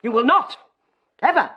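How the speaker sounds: firm, emphatic order with pauses; stern command. Acted. Wife forbids her bishop husband, stern and commanding. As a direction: lay down the law, stressing each refusal.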